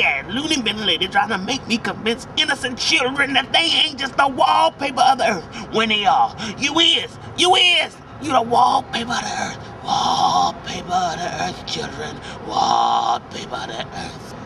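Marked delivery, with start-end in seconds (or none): 2.8-9.8 shouting the insult; ranting shout. Acted. Ranting at the children. 9.8-14.3 mock solemn.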